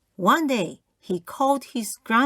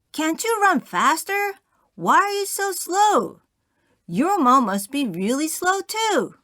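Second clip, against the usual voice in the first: put-on kids bickering; 7 semitones higher, 4 dB louder than usual. Two boys arguing at park.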